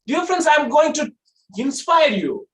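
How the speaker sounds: high, loud motivational voice; high pitch. Shown as a demonstration. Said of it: "This is a high pitch".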